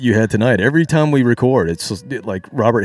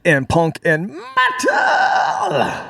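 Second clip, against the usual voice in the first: attempted high metal scream; 4 semitones higher, slower than usual. Shown as a demonstration. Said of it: "Almost. Almost got there".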